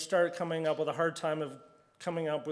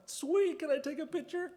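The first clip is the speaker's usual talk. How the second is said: much higher, thrilled asking; excited; 11 semitones higher than usual. Retold or imitated. Speaker asking the rig owner for a photo, excited. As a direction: gush over the machine like a fan.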